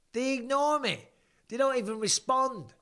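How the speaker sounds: high-pitched, exasperated comic protest; mock indignant. Real, not acted. Streamer moaning that his family group chat ignores him, mock indignant. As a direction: complain like the wronged, left-out brother.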